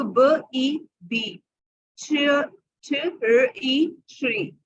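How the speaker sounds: ब ई बी, sounds stretched slowly; slow blending. Shown as a demonstration. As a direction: draw out each sound then blend. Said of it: "कैसे पढ़ेंगे इसको". (ध्वनियाँ धीरे जोड़ना)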